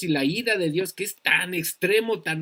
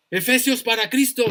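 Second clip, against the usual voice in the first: mock shout; 5 semitones higher than usual. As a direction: shout it like a crusade slogan. (grito burlón de campaña)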